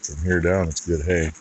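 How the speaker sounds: ordinary talk, nothing marked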